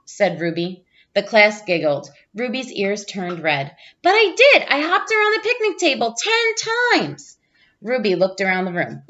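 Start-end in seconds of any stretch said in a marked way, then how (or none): 4.0-7.4 insisting. Acted. Child insists as class giggles.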